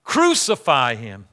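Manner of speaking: slow, low-pitched mock crowd cry; measured, emphatic imitation of a chanting crowd. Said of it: "they cried out loudly".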